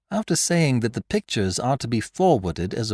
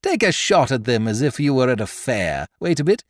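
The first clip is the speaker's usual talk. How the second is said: high, louder, teasing glee; gleeful taunt; 6 semitones higher, 4 dB louder than usual. A narrator's reading. Beautrelet taunting the Count with the revolver, gleeful. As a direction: dare him to shoot, delighted.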